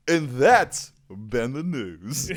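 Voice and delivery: slow, laughing newsreader close; mock news sign-off. Trying out a sign-off as a laughing mock news anchor. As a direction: ham up a news anchor's goodbye.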